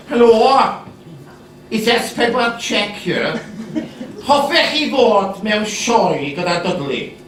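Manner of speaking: lightly voiced Welsh caller; a bright phone voice asking a favour.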